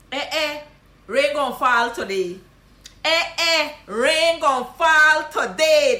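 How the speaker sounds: loud, slow Guyanese Creole mock surprise; surprised Guyanese greeting. Shown as a demonstration. Guyanese teacher teasing a rarely seen friend. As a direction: tease the long-lost friend. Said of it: "This is what you gonna say".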